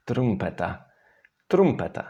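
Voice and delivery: trumpeta arriving at a trilled R; right R sound. Shown as a demonstration. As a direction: land the rolled R in trumpeta. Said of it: "you get the right sound".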